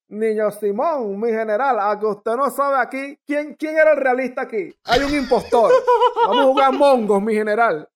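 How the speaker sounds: loud, laughing mock tattletale voice; gleeful snitches ratting him out to the general, laughing; mocking tattle. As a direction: ham up the snitching friends, giggling. Friends mockingly tattle to Bolívar.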